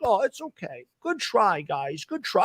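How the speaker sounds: soft hushed sarcastic comfort; whisper-soft fake sympathy; mock soothing. Mocking the beaten defense with soft fake comfort. Mock consoling after big play.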